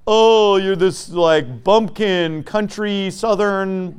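sneering imitation of critics; lightly mock the sneer at Southerners. Mocking what critics say about the South. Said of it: "they always try to make it sound like".

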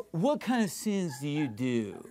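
low, soft impression of a radio host; mocking imitation of a talk host, low and subdued; Jesse Lee Peterson. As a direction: mimic the probing interviewer, voice dropped. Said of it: "this is how he talks".

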